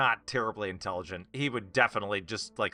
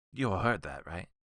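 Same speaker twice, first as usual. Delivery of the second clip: very hushed half-whisper under the breath; 3 semitones lower, 3 dB quieter than usual. Player voicing Crans as he looks around at the group, half-whispering under his breath. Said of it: "very under his breath, like very kind of whispering".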